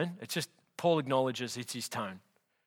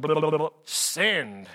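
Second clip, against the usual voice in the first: mock careless typing; 3 dB louder, slower than usual. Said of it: "Paul's just going".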